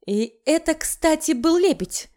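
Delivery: put-on a young woman's high correcting tone; high girlish voice. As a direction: voice her up high and earnest. Masha correcting him.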